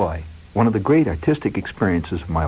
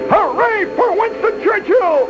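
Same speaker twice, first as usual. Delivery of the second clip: holler. Retold or imitated. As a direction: bellow it to set him off. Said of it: "stick my head into steam and holler".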